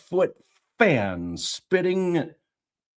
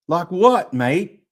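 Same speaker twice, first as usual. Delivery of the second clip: put-on Cockney accent; 4 dB louder than usual. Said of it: "Let's do Cockney".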